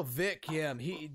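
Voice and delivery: ordinary delivery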